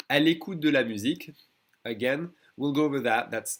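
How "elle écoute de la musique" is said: «Elle écoute de la musique» with de as its own syllable; full form. Shown as a demonstration. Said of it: "an E in second position is gonna be swallowed".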